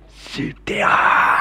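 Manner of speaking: slow word squeezed out through laughter; laughing. Real, not acted. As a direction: break into laughter on the title. Laughter breaks the title.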